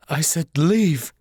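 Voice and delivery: slow, cold dismissal; cold and firm. Acted. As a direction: say it slowly, shutting him out. Mother coldly dismisses son.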